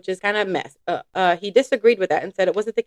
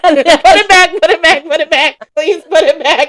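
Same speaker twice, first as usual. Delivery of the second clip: laughing plea; 4 semitones higher, 4 dB louder than usual. Real, not acted. Laughing pleas.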